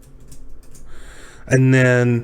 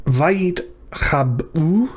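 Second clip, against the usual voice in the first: slow sounding out; 4 semitones higher, much slower than usual. Shown as a demonstration. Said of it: "sounds out word slowly".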